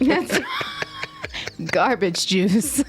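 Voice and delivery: slow, stretched-out insult; slow drawl. Real, not acted. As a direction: stretch it out mockingly. Drawn-out put-down.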